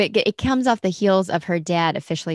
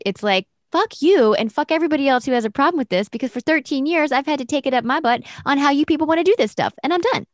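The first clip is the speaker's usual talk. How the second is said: high, loud furious rant; fed up and yelling it out; angry outburst; 6 semitones higher, 4 dB louder than usual. Retold or imitated. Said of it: "for her to be like".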